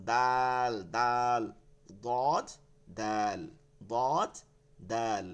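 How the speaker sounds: "দদ" heavy and round, "দাল" thin, both drawn out; thick versus thin. Shown as a demonstration. Teacher contrasting two similar letters, thick and thin. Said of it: "আর একটা হবে চিকন".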